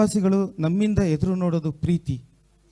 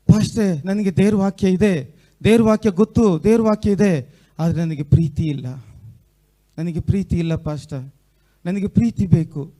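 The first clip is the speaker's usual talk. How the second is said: put-on louder pleading girl, no real sobs; loud crying plea; 5 dB louder than usual. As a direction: cry out to the pastor for love. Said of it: "ಜೋರಾಗಿ ಅಳ್ತಾ ಇದೆ". (ಜೋರಾಗಿ ಅಳುತ್ತಾ ಬೇಡುವ ಹುಡುಗಿ)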